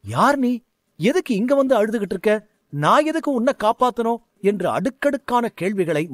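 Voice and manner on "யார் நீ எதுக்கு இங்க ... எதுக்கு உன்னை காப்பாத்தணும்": startled, quick-fire questions; a surprised teacher grilling an unknown boy. Acted. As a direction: fire off baffled questions at the stranger. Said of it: "சாரதி ஆச்சரியத்துடன்".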